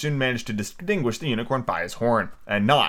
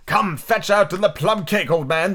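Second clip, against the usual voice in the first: demanding unicorn; 8 semitones higher, slower than usual. A narrator's reading.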